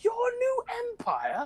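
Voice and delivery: incredulous, high, loud, pushed up in disbelief. Quoting a favorite movie exchange: imitating incredulous Obi-Wan. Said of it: "Obi-Wan just so incredulous says".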